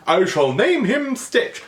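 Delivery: put-on slow, high, proclaiming child; grand naming. A girl naming her new pet, slow and grand. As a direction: announce it with ceremony. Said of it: "this whole naming thing".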